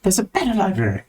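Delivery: high, slow scolding; drawn-out, high-pitched exasperation; exasperated library dweller. Acted. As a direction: send them off with strained patience.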